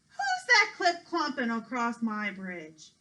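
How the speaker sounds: slow, loud troll roar from below. Acted. Troll challenges the goat crossing his bridge, slow roar. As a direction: growl it out like a troll under the bridge.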